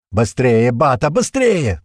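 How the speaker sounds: loud strained hurrying, slowing on the second; urging, starting to groan. A narrator's reading. Leader urging the driver on, loud and strained. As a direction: push the driver on through pain. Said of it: "торопил его Дэра, уже начиная стонать".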